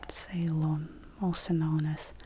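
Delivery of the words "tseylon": Ceylon begun with ts, as in pizza; initial ts sound. Shown as a demonstration. Teacher giving a ts example word, Ceylon starting with ts. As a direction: say Ceylon as "Tseylon", t and s fused. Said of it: "t, and s as one sound".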